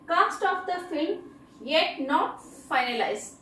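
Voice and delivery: very slow, every word spaced out; slow dictation. Shown as a demonstration. Teacher reading an example sentence very slowly to students. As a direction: read it out slowly so students can write it down.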